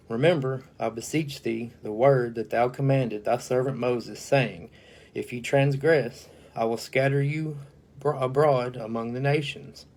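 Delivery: a formal, solemn Bible reading; measured King James recitation; scripture reading. Acted. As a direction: read the verse out like a preacher at the pulpit. Reads Nehemiah scripture aloud.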